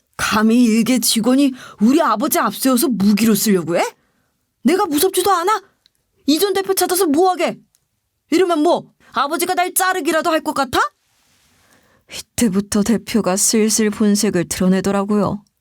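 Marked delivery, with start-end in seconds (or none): 0.2-10.8 sudden, high-pitched, furious angry outburst. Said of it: "버럭 화를 내는 거예요".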